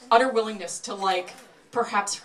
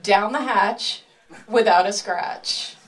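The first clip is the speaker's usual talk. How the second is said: showman catchphrase; slower than usual. Acted. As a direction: announce the trick like a ringmaster. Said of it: "as we say in the trade".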